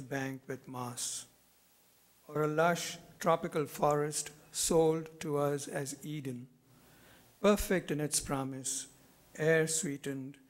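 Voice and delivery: measured poem recital, pausing after each phrase; deliberate phrases that fall away at the close; poetry reading. Acted. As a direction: read your poem to an audience, letting each image settle. Reads own poem aloud.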